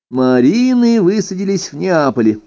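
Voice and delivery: ordinary delivery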